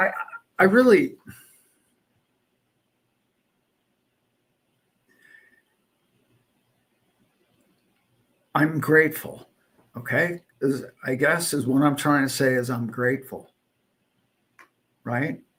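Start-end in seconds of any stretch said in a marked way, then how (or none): 0.0-9.5 choked-up voice, thick with emotion. Speaker thanks listeners for all they've done over the years, choked up. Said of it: "I didn't mean to get all choked up".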